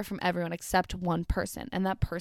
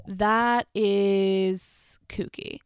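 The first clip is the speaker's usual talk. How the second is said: drawn-out disbelief; 4 dB louder, much slower than usual. Real, not acted. Reacting to a weird story.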